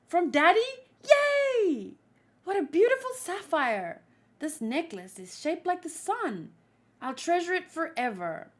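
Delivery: put-on thrilled little girl, high and loud; childlike voice. Child getting a birthday present from Daddy, childlike delight. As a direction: squeal with delight, then settle into happy wonder. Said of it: "this is her childlike voice?".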